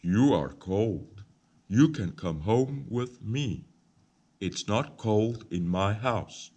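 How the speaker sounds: calm a freezing little bird; lightly voiced kind man offering shelter. A narrator's reading. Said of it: "The man says".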